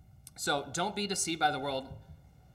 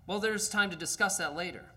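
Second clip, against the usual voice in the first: evasive ghost; 5 semitones higher than usual. Acted. Ghost stalling.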